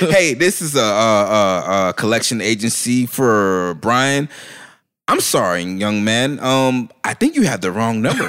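mock professional phone manner, measured and polite; lightly put-on customer-service politeness; phone code-switch voice. Turning away a debt collector by phone, put-on polite voice. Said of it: "I code switch when I'm on the phone".

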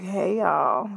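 breathy come-hither hey; sexy raspy voice. Shown as a demonstration. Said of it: "have been sounding like".

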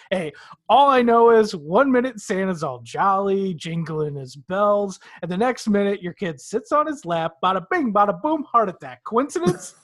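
a hint of a New York wise guy telling it; New York accent. A co-host voicing the mall elf to the dad, in a light New York accent. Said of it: "he sounded like he was from New York".

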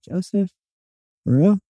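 high put-on stiff voice, rising in disbelief; mock Joseph Gordon-Levitt voice. Mocking the actor's stiff voice to a friend. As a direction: impersonate the actor's fake voice. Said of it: "Stop talking like that".

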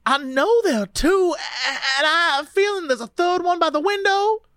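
a hint of Louisiana in a dazed recollection; Louisiana accent. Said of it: "read her in a Louisiana accent".

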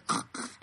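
soft, raspy imitated throat noise; breathy imitation of a creepy noise; weird clown noise. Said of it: "making this, like, weird noise".

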